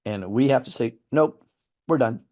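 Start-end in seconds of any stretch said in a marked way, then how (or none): 1.1-2.2 firm refusal. Shown as a demonstration. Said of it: "Literally that easy".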